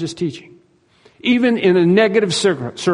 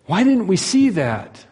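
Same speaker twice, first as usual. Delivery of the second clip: higher, slow bewildered question; dismayed disciples; 4 semitones higher, slower than usual. Acted. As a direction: ask it slowly, in acted dismay. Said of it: "you can imagine the disciples".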